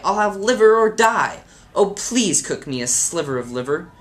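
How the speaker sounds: hammed-up pleading outcry; mock cry. A narrator's reading. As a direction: cry out high and loud, then ease off. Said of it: "I'll cry".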